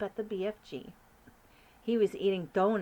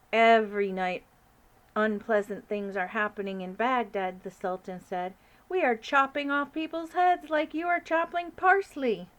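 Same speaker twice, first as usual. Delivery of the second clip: a hint of a pompous sultan; lightly voiced sultan; 3 semitones higher, 7 dB louder than usual. Sultan answering the Queen, lightly grand.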